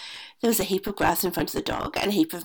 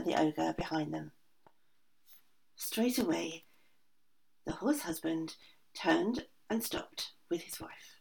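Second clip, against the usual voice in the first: much softer, hushed storytelling; hushed narration; 7 dB quieter than usual. A narrator's reading. Narrator telling the tense escape, hushed and soft.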